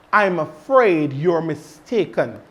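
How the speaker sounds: polite and tactful. Shown as a demonstration. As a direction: gently let them down. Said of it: "you can say".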